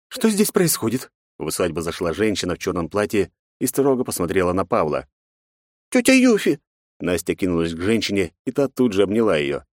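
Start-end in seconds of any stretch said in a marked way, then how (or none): 0.1-1.1 high woman's voice, slow and stern; a woman walking in on a scene. A narrator's reading. Aunt Yufi demands what is going on, sternly. 5.9-6.6 put-on high girl's voice, stammering apology; a scared little girl caught out; frightened young girl. A narrator's reading. Nastya stammers an apology to her stern father.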